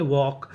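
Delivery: वॉक as "vawk", no l sound; silent L. Shown as a demonstration. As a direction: model वॉक with an open aw vowel. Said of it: "यहाँ पे एल हमारा silent रहता है".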